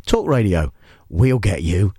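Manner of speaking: low, menacing Talk Radio slogan. Shown as a demonstration. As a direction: make it sound like a threat. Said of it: "the most threatening radio station because the screens".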